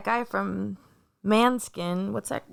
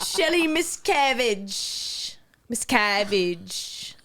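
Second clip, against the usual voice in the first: put-on slow Irish accent; 2 semitones lower, slower than usual. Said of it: "in your best Irish accent".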